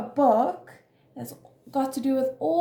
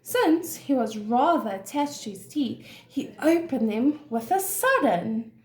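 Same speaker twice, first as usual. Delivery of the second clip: measured, expressive storybook narration; story reading to children. A narrator's reading. Teacher reads an animal story to children, expressive storytelling. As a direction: read it clearly for young listeners.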